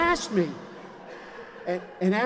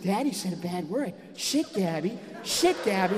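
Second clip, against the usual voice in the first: mocking child. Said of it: "Gabby's now mocking me".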